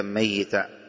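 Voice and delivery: "ميتا" as mayyita, with doubled y; doubled kasra ya. Shown as a demonstration. Teacher recites Abu Ja'far's reading, "ميتا" with doubled ya. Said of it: "بكسر وتشديد الياء".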